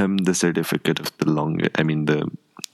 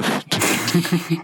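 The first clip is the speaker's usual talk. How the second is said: very high, slow squeak; squeaky voice; 13 semitones higher than usual. Shown as a demonstration. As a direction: strain up into a squeaky voice. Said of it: "I shall do it in the squeaky voice".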